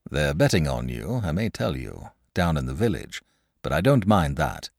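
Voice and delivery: easy, open and friendly; frank and pleasant. A narrator's reading. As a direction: George proposing a fair fight, frank and pleasant. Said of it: "in his frank, pleasant way".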